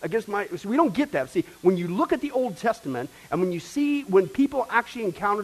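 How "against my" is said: wrath about to burst. Acted. God's pent-up wrath voiced.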